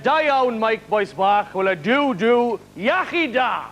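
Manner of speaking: mock Welsh words, said quickly as a friend would; Welsh greeting. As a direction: rattle off a bit of Welsh. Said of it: "congratulate me in Welsh".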